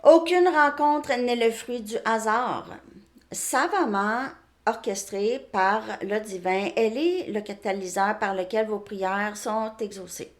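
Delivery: measured, emphatic reading of an oracle message; card message read aloud. Acted. Tarot reader reading a card's message to viewers, clearly and deliberately.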